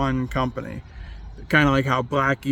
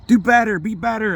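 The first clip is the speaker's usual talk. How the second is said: self scolding; 8 semitones higher, 3 dB louder than usual. Real, not acted. Scolding himself about eating.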